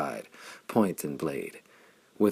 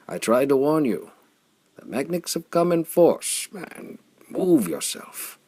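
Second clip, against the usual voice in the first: high, loud warning from horseback; urgent yell; 10 semitones higher, 6 dB louder than usual. A narrator's reading. Vaudar yelling down from the saddle at Flame, urgent. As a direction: yell at him to move, now.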